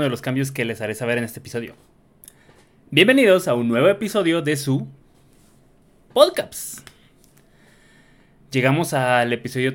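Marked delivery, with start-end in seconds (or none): 2.9-6.9 higher-pitched podcast welcome, jumping up on the last word; podcast host's opening call; show intro. Real, not acted. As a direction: announce the show, pitch lifted. Opens the show with his intro.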